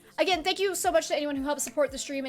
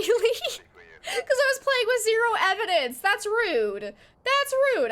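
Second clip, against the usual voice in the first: mock indignant whine; 9 semitones higher, 3 dB louder, slower than usual. Real, not acted. Indignant whine over missing evidence.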